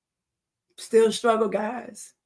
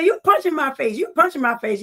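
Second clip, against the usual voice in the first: daring him, a touch of sass; defiant attitude; 5 semitones higher than usual. Retold or imitated. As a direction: bold retold dare. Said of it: "I had attitude back then".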